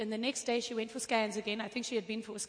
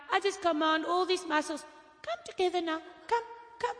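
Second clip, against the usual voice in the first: commanding prayer; 5 semitones higher than usual. Retold or imitated. Commanding healing over the muscles.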